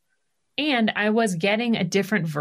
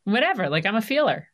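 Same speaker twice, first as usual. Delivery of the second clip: breezy daughter voice; 7 semitones higher than usual. Retold or imitated. Daughter quoted, breezy and unbothered.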